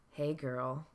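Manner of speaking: low, quiet leer; slimy hey girl; creepy catcall. Shown as a demonstration. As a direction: creep calling from the shadows. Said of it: "I'm gonna say it a few times".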